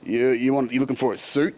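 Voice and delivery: touts' put-on Aussie accent; imitated Aussie accent. Suit tout trying to fool an Australian tourist, imitated Aussie accent. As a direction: lightly mimic a seller faking an Aussie accent. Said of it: "They'll do accents to throw you off".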